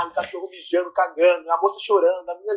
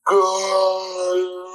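shocked swear; much slower than usual. Retold or imitated. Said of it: "e eu".

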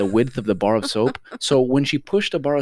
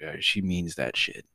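low, slow and softer, mildly awed; subdued realization; 6 semitones lower, 6 dB quieter, slower than usual. Retold or imitated. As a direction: say it slowly, as a lesson learned. Child realizing mom is serious.

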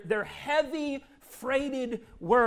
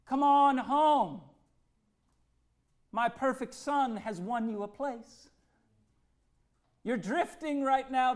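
Father's tender call; 2 semitones higher than usual. Acted. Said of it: "You'll hear him saying".

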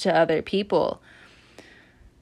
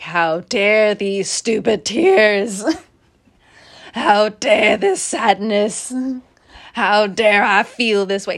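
indignant Sagittarius; 5 dB louder, slower than usual. Retold or imitated. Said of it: "the Sagittarius is just like".

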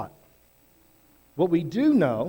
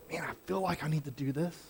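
doubtful inner voice; 11 dB quieter, faster than usual. Pretend.

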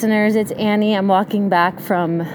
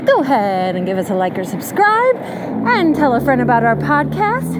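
YouTube voice. Acted. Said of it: "this is me doing my YouTube voice".

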